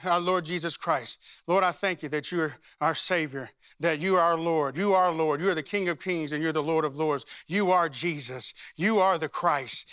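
earnest prayer in short repeated petitions; demonstrated prayer. Shown as a demonstration. Pastor showing the congregation how to pray the card, prayerful. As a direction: pray the scripture aloud, phrase by phrase. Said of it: "I'm gonna show you how to pray this".

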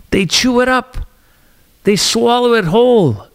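mock media frenzy. Vlogger mocking the media, high and sneering.

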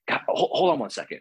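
whispered, strained plea to wait; breathy hold on. Retold or imitated. Asking the spirit being to wait while in pain, whispered. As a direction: rasp out a wait with no voice.

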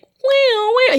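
high siren wail imitation; mock police siren. Imagining the cop pulling her over, mock siren wail. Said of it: "then he's gonna be like".

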